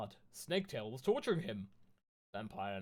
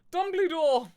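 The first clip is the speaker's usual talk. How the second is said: much higher and louder, full desperate shout; bigger yell; 13 dB louder, slower than usual. Acted. Girls yelling for Dumbledore a second time, louder. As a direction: scream the name even harder. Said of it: "we both yelled".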